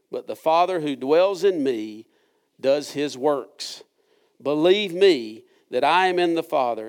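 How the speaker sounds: slow, measured Bible reading with stressed dialogue; deliberate scripture reading. Shown as a demonstration. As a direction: read the passage carefully, leaning on the exchanges. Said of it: "I tried to read that intentionally a little slower than I normally read".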